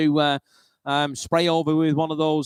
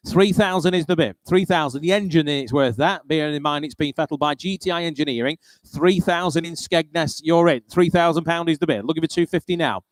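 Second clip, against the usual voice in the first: auctioneer. Acted. Calling bids at a car auction.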